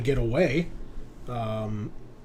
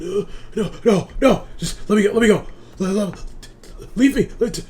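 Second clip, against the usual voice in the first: high, loud frantic pleas to be let go; panicked begging; 7 semitones higher, 7 dB louder than usual. Acted. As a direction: beg wildly to be released. GM voices panicked doctor struggling.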